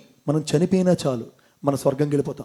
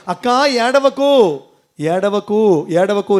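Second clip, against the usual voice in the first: comforting sister; much slower than usual. Acted. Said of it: "Sumitra పక్క నుండి చెప్తోంది".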